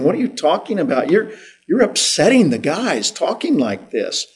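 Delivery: a worried friend begging him to stop; Peter pleading with Jesus. Retold or imitated. Peter pulls Jesus aside, pleading and alarmed. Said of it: "and he says".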